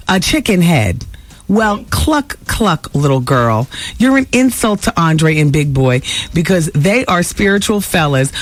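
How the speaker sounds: lightly voiced haughty diva, slow; a hint of a cool grande dame putting a girl down; quoted diva reply. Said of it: "so she fired back".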